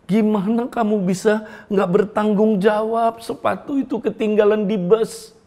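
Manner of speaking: a lightly voiced tearful scolding mum; scolding mother. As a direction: reproach the careless child, rising as you go. Crying mother scolds her son.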